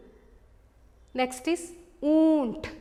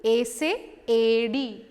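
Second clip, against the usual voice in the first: slow model word; 2 semitones lower than usual. Shown as a demonstration. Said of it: "Repeat with me".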